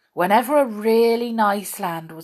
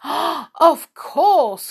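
high, loud, delighted cry; 9 semitones higher, 6 dB louder than usual. A narrator's reading. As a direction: burst out with joy, louder and higher. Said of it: "cried the children in delight".

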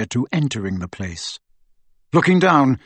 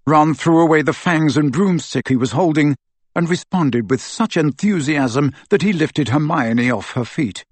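ordinary delivery

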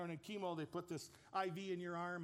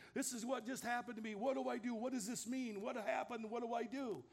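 higher-pitched, mildly frantic questions; retold tearful panic; 4 semitones higher than usual. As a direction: act out a shaken man's urgent questions, without real tears. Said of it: "He's shaking. He's crying. He's going".

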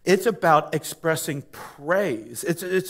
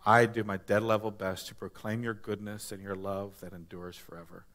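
soft, hushed closing prayer; quiet prayer; 6 semitones lower, 9 dB quieter than usual. Acted. Pastor closing in prayer, soft and hushed. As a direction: pray it gently and low to God.

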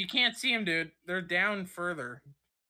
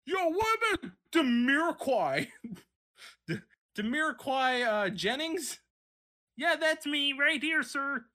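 white guy at roll call; 6 semitones higher than usual. Retold or imitated. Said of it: "imitating roll call again".

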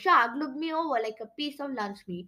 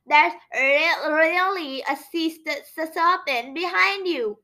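stammering; 4 semitones higher than usual. A narrator's reading. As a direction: trip over every word in fear.

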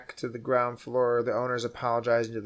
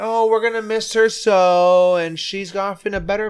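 mock nanny voice; 7 semitones higher, 7 dB louder than usual. Voicing the nanny's euphemism.

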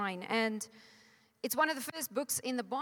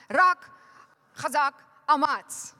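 with guts; 2 semitones higher, 8 dB louder, slower than usual. Shown as a demonstration. Preacher urges the church to shout the war cry with guts. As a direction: roar it like going into battle. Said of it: "now say it with guts".

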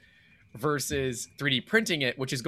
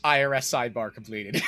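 mock announcement shout; 3 semitones lower than usual. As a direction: bellow it like a formal announcement. Announcing end of sidebar.

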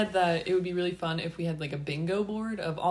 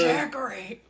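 put-on toothless old voice; slower than usual. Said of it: "Talk with no teeth".

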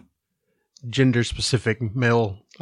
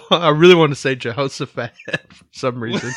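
giggling while talking; laughing; 3 semitones higher, 6 dB louder than usual. Real, not acted. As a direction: laugh through the line. Laughing at own silly idea.

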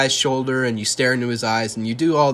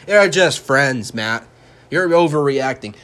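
sarcastic; 2 semitones higher, 6 dB louder, slower than usual. Pretend. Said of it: "I'm just being all sarcastic now".

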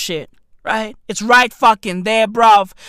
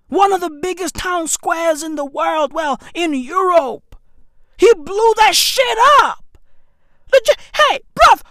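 ranting shout; 6 semitones higher than usual. Acted. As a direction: shout it out, outraged. Ranting about bombing.

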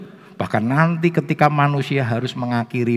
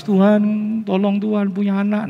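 higher-pitched imitated pleading; mock tearful prayer; 10 semitones higher than usual. Childless person prays to God for a baby, mock crying. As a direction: beg weepily, as in mock prayer. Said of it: "sembahyang nangis".

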